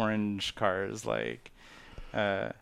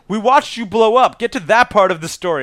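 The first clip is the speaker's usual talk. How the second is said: much higher, louder mock outburst; loud, high retold protest; the speaker's loud interruption; 9 semitones higher, 11 dB louder than usual. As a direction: butt in with exasperated shouting, hammed up. The speaker jumps in, acted objection.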